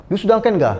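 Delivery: broken Malay to Chinese. Retold or imitated. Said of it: "kita bertukar".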